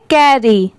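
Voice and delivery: "कैरी" ending on an open ee; pronunciation demo. Shown as a demonstration. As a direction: say "कैरी" in two syllables, no final d. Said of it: "उसे हम क्या पढ़ेंगे". ("कैरी" ई पर खत्म, बिना ड के)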